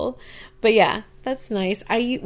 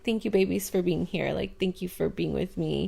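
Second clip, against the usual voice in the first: tender thanks; 6 dB quieter than usual. Retold or imitated. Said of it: "I'm just like".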